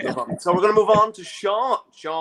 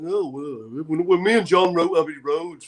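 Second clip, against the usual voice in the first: put-on Liverpool rock-star voice; a famous singer. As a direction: reminisce as a Liverpool band member. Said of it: "a famous singer".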